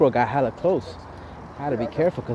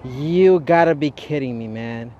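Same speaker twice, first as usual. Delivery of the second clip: disbelief; 5 dB louder, slower than usual. Real, not acted. Pokemon fled, disbelief.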